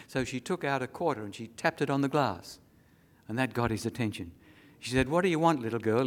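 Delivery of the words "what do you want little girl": annoyed, louder opening, easing off at the end; angry. Acted. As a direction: snap impatiently at an interruption. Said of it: "he said angrily".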